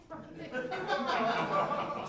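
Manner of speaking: slow, winded and laughing; out of breath. Retold or imitated. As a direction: gasp it out, exhausted. Retelling the marathon exhaustion.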